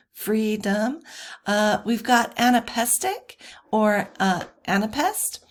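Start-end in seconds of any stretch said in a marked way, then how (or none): 0.1-1.0 "freedom" with stress on the first syllable; strong "free", light "dom" in "freedom"; trochaic stress. Shown as a demonstration. Teacher contrasting two feet, "freedom" front-stressed. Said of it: "you can see how it's a little different".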